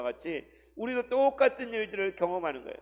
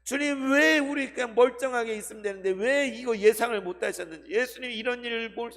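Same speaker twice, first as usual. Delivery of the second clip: reproachful scolding; 5 semitones higher, 4 dB louder than usual. Acted. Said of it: "책망하면서 꾸짖으면서".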